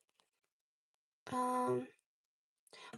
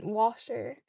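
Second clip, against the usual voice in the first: "washer" for water, South Dublin style; South Dublin accent. Shown as a demonstration. Imitating South Dublin for viewers, South Dublin accent. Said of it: "South Dublin".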